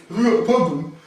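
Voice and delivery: a thug's slurred challenge, acted out; aggressive challenge. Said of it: "doing this fucking weird head pecking thing".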